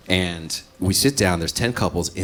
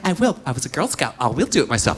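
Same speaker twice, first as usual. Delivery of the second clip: defiant; 6 semitones higher than usual. Retold or imitated. Girlfriend's defiant reply.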